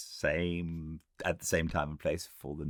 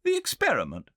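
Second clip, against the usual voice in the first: higher, louder weary outburst; cried out; 5 dB louder, faster than usual. A narrator's reading. Brain-weary Filby cries out to the time traveller, higher and louder. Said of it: "cried Filby".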